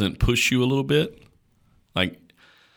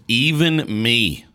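Jesus voiced; 4 semitones higher, much slower than usual. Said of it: "He goes".

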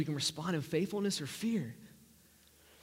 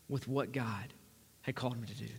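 fading low; 6 semitones lower, 6 dB quieter than usual. Real, not acted. Voice sinks to describe inaction.

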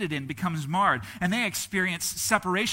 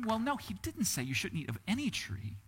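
ordinary talk, nothing marked

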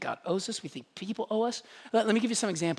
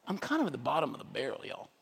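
humble admission; 6 semitones lower, 9 dB quieter, faster than usual. Retold or imitated. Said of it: "if you realize".

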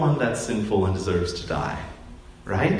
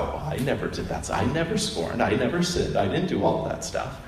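softer, smug denial; self-righteous protest; 4 dB quieter than usual. Acted. Older brother defending himself, soft smug denial. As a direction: insist on your own goodness, quietly.

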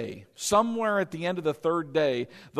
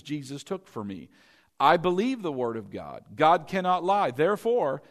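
confession prayer. Shown as a demonstration. Preacher reading his written healing confession aloud to the congregation, calm and declaring. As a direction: recite it like a confident confession of faith. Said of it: "this is what I would say".

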